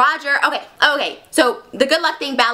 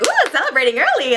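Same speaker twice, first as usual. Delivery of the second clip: higher, swooping mock delight; playful acted excitement; excited; 4 semitones higher than usual. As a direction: coo it like a gleeful tease. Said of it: "they get really excited".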